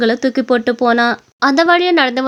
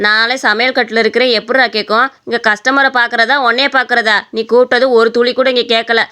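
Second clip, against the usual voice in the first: lightly voiced weary scolding; exasperated mother. Busy mother handing her son money, exasperated. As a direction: grumble at a pestering son.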